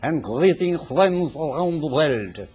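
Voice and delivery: slow, mock French Canadian accent; hammed-up French Canadian accent. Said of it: "with a French Canadian accent".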